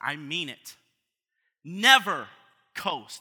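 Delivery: loud, slow, insistent voice. Retelling a warning given at dinner: imitating someone raising his voice. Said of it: "he raised his voice at me".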